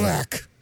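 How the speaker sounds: "Kraftwerk" in a put-on German accent; attempted German pronunciation. Shown as a demonstration. Host demonstrating the band's name, German-style "Kraftwerk". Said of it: "the correct pronunciation".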